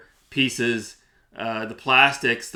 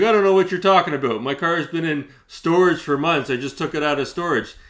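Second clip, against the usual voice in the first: higher, fast, defensive mimicry; mock defensive seller; 4 semitones higher than usual. Mimicking the seller denying it, higher and defensive. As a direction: imitate her playing dumb. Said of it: "She's like".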